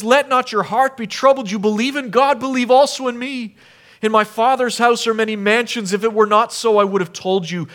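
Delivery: loving reassurance to his disciples; tender Jesus. Acted. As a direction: speak as a gentle, loving mediator. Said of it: "You hear the love in his voice there?".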